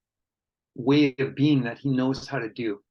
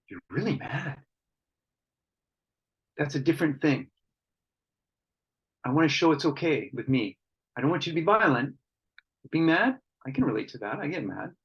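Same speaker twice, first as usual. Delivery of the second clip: calm acceptance. Shown as a demonstration. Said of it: "I'm matching, I'm going".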